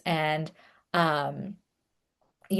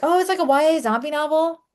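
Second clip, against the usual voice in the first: retold eager answer, pitched much higher; bright eager reply; 9 semitones higher than usual. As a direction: chirp it out like you're proud of your book. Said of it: "I was like".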